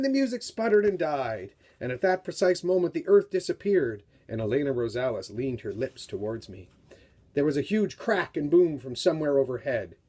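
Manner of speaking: dramatic read-aloud of a novel excerpt; story reading. A narrator's reading. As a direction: read it like a tense story for young readers. Author reads book excerpt aloud.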